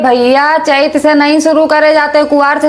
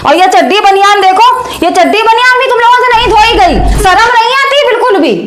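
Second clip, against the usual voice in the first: scolding rant; 4 semitones higher than usual. Acted. Mother berating her lazy sons over unwashed underwear, climbing angrily. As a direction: pile it on, climbing higher as the outrage grows.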